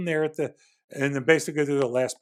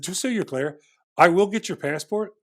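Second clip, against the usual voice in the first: deliberate, spelled-out threat with pauses; retold firm warning. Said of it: "I said it just like this".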